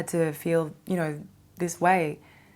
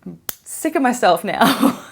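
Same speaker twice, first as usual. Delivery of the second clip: loud, high, drawn-out exasperation; slow, raised-voice cry of being done; hammed-up fed-up wail; fed-up outburst; 5 semitones higher, 10 dB louder than usual.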